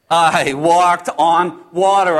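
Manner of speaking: slow, drawn-out proclamation; emphatic wonder. Acted. Disciple proclaiming he walked on water, emphatic wonder. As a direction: stretch out every word, proudly amazed.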